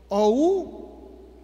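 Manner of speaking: O U as two separate vowels; diphthong spelled out. Shown as a demonstration. Teacher answering which is the diphthong, O U distinctly separated. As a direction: sound out O, then U, distinctly. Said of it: "¿cuál es el di".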